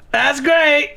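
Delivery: high-pitched mock cheer; squeaky forced-upbeat imitation; awkward fake enthusiasm. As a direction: gush it with obvious fake brightness. Retold overdone upbeat reply.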